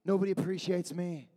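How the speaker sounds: a hint of a sulky, defeated David; mock complaining. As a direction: sigh it out like a sulking king. David voiced complaining on throne.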